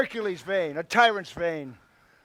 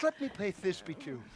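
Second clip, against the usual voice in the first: monstrous little voice; 12 dB quieter than usual. Acted. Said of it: "I'll speak in a monstrous little voice".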